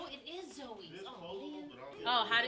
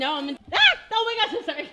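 being tickled; 8 semitones higher, 7 dB louder, faster than usual. Real, not acted. Tickled, squeals.

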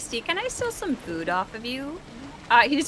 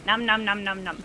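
nom nom chomping. Pretend. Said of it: "Wait, no, I can".

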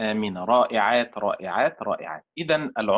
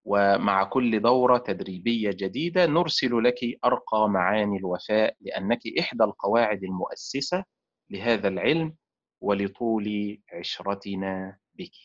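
fond farewell recital; 3 semitones lower than usual. Acted. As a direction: recite it like a tender goodbye letter. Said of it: "أقول لها".

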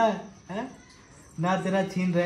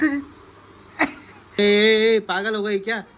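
tag; 4 semitones higher, 3 dB louder than usual. Pretend. Mock scolding woman for hitting child.

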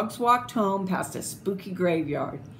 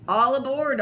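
higher, louder cheerful call; 6 semitones higher, 4 dB louder than usual. A narrator's reading. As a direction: call the dogs aboard. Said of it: "Oscar called".

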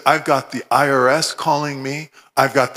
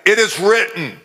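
raised, forceful proclamation; declaring scripture; 4 semitones higher than usual. Retold or imitated. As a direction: proclaim it against hell. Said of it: "that's the way Jesus confronted hell".

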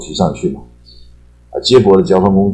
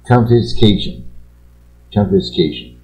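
slow pronunciation drill; 4 semitones higher, much slower than usual. Shown as a demonstration. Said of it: "slow vocabulary pronunciation demo".

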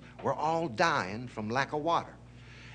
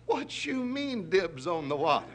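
indignant challenge; 5 semitones higher than usual. Acted. Lion challenges tiger's claim.

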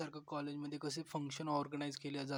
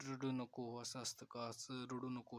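soothing; 3 semitones lower, 4 dB quieter, slower than usual. Retold or imitated. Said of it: "समजावू लागला".

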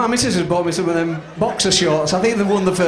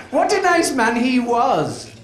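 put-on high, slow, fond old lady; slow dreamy old woman; 5 semitones higher, slower than usual. Old woman recalling a man, slow and fond. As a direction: savour the name like a sweet memory.

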